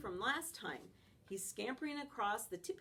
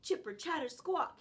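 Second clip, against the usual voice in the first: high, loud chattering squeal; squirrel screech; 5 semitones higher, 5 dB louder than usual. Acted. Squirrel on the fence screeching at the dog, high and loud. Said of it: "he screeches again".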